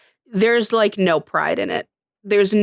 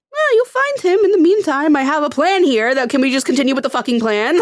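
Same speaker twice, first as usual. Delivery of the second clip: mock impatient villain; 5 semitones higher than usual. Imitating villain impatient with interruptions.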